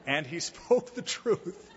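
chuckling through the words; slow, amused chuckle; laughing. Real, not acted. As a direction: laugh while saying it.

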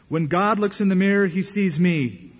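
mock ecstatic preacher. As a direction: proclaim it with revival fervor. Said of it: "taken out of one of his sermons".

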